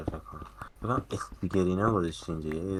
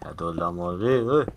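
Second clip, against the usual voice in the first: calling out; 8 dB louder than usual. Real, not acted. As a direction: call him out loud, then hey. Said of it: "یه بار دیگه صداش کن".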